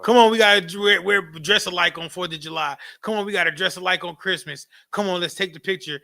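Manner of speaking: mock nagging wife pushing for the photo. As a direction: pester him like an insistent wife. Wife nagging to take picture.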